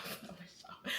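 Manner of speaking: laughing it out under her breath; laughing whisper. Real, not acted. To viewers, admitting it through a quiet laugh. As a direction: giggle the words almost silently.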